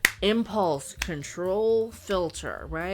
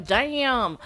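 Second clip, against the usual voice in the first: mock Black American accent, exclaimed; imitated Black American accent; 5 dB louder than usual. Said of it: "get a black accent going".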